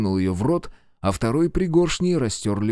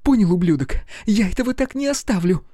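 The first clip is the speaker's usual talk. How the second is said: furious; 10 semitones higher than usual. Acted. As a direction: scream the threat at him. Kristina threatens in fury.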